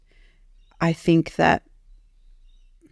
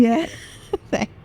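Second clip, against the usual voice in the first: tearful whisper; 6 semitones higher than usual. Real, not acted. Crying guest thanks host.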